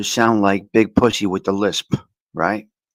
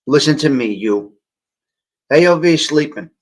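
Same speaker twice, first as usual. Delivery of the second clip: mic test; 2 semitones higher, 4 dB louder than usual. Shown as a demonstration. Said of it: "Tell me if you hear the difference as I move the microphone".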